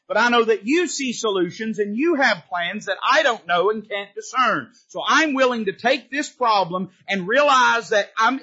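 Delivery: a preacher acting out a trusting prayer; voiced prayer. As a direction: pray it out, lifted and earnest.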